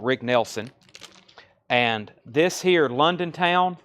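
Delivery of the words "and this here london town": slow Southern "this here London Town"; Southern drawl. Real, not acted. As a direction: Tennessee twang on "this here". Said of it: "that sounded very southern".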